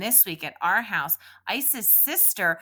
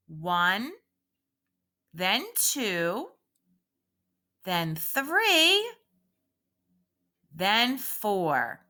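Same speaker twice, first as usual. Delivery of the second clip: counting slowly; much slower than usual. Shown as a demonstration. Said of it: "Repeat after me".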